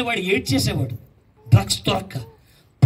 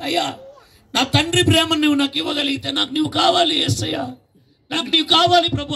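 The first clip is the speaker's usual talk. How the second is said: higher, pleading cry to Jesus; crying plea; 6 semitones higher than usual. Retold or imitated. Young man begging Jesus for a father's love, tearful plea. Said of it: "అంటూ ఏడవడం ప్రారంభించాడు".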